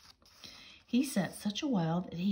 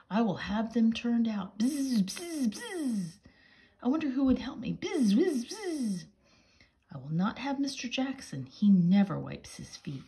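much higher, fussy mouse voice; cross mouse voice; 6 semitones higher, 4 dB louder than usual. Acted. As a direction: fuss like an indignant little mouse. Cross mouse mimics bees.

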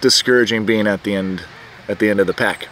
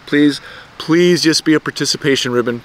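pleading; 3 semitones higher than usual. Retold or imitated. First plea.

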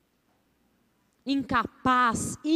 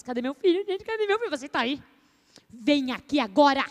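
syllabic mother. Shown as a demonstration. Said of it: "a mãe silábica".

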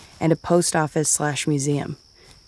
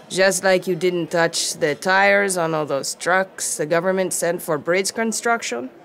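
challenging; 2 semitones higher than usual. Acted. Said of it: "Aggie challenged".

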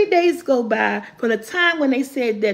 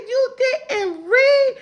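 high, slow laughing question; 12 semitones higher, slower than usual. Real, not acted. Asking her son if he read, laughing. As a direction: ask it while cracking up.

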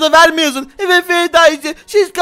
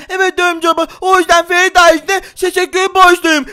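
put-on lightly raised child voice, relieved and grateful; a spider boy thanking his dad, a little higher; spider kid; 3 semitones higher, 3 dB louder than usual. (hafif ince sesli örümcek çocuk)

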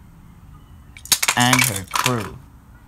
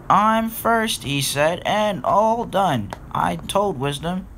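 high smug slow gloat; 7 semitones higher, slower than usual. Acted. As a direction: gloat over winning. Edward gloating.

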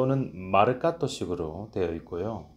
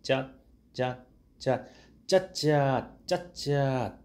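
slow detached 짜, last ones higher; staccato; 4 semitones higher, much slower than usual. Shown as a demonstration. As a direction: space out each 짜 crisply. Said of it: "박자를".

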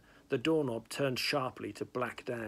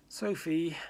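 a mild plea, a touch higher; pleading; 6 semitones higher, 3 dB louder than usual. A narrator's reading. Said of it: "Hal said pleadingly".

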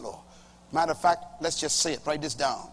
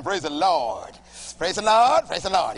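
praise call; 6 dB louder than usual. Shown as a demonstration. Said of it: "Everybody say".

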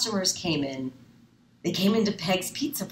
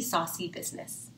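plain reading voice

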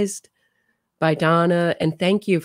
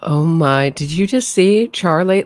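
excited; 6 dB louder than usual. Real, not acted. Sudden reaction watching the trial.

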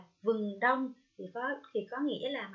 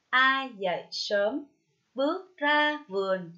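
slow, louder model reading of a verse; poem recitation; 7 dB louder, slower than usual. Shown as a demonstration. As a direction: recite the verse slowly, pausing between lines. Cô đọc mẫu khổ thơ. (đọc thơ chậm rãi, rõ từng tiếng)

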